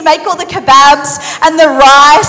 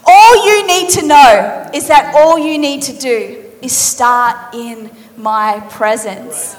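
weighty Jesus; slower than usual. Acted. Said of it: "looks in her eyes and he says".

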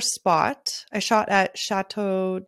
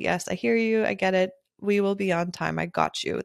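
softening, settling reply; calm reassurance. Retold or imitated. Photographer reassuring an anxious groom, calmly. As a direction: reassure calmly, voice easing down at the end. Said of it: "respond calmly".

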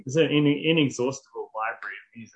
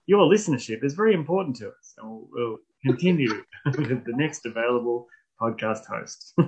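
call center recording; 2 semitones lower than usual. Pretend. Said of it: "mock hold message".

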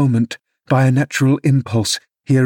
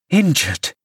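higher, indignant echo; angry outcry; 5 semitones higher than usual. Acted. Nurse scolding the father, angry and higher. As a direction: throw the word back in disbelief. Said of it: "I cried angrily".

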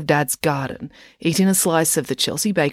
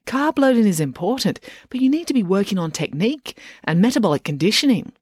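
put-on bossy coach girl; 5 semitones higher than usual. Loretta lectures on training.

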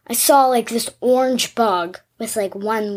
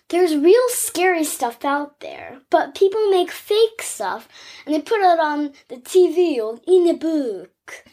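mock Italian accent; 3 semitones higher than usual. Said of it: "Are you French all of a sudden".

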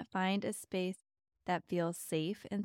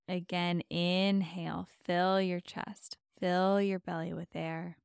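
guided meditation. Acted. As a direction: ease them into calm with long pauses.

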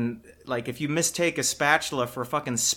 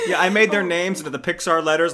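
laughing, louder and higher; 6 semitones higher, 8 dB louder than usual. Real, not acted. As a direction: giggle through the sentence. Laughing about own video.

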